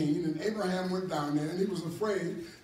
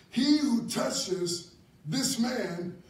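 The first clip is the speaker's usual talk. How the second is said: slow, drawn-out royal command; solemn decree; 4 semitones higher than usual. Acted. King warning his people, a slow solemn decree. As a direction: proclaim it slowly like a king's edict.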